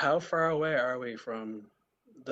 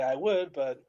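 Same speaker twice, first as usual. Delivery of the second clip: sarcastic mock willingness, then a quick excuse; lightly voiced sarcasm; faster than usual. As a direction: say it with a touch of sarcasm. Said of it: "I'm saying that very sarcastically".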